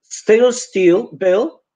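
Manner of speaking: "still" and "Bill" with a clear short i; rising list of "still", "still", "Bill"; short i words. Shown as a demonstration. Teacher showing the correct short i.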